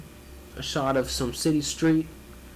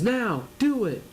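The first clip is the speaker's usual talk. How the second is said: villain command; 8 semitones higher than usual. Acted. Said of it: "turns around and says".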